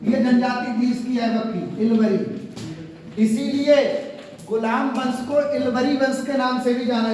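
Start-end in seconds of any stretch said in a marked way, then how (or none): 1.8-3.2 drawn out. Shown as a demonstration. Teacher stretches tribe name.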